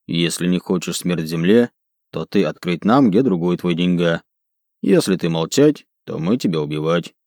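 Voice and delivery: low, menacing orc in broken speech; broken Dwarvish. Acted. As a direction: threaten in halting grammar. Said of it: "на ломаном языке гномов".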